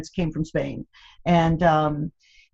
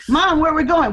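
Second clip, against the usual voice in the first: mock child asking; 10 semitones higher, 5 dB louder than usual. Kids voiced asking mom.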